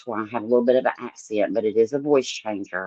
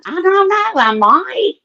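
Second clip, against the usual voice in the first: voice changer; 11 semitones higher, 9 dB louder than usual. Pretend. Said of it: "me using my voice changer".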